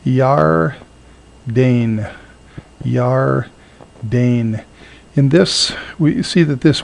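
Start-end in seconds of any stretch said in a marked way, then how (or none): 0.0-4.6 Yardain said slowly, syllable by syllable; Hebrew word demo. Shown as a demonstration. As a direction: pronounce Yardain carefully for students. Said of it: "is the word".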